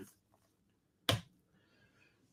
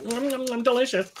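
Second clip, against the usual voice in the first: high, softer cartoonish relish; hungry shark; 8 semitones higher, 4 dB quieter than usual. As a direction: play a shark savoring its meal. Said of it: "shark's like".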